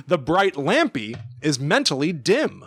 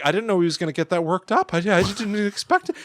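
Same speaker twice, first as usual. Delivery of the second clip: high toaster voice; 4 semitones higher, faster than usual. Retold or imitated. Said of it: "And Toaster's like".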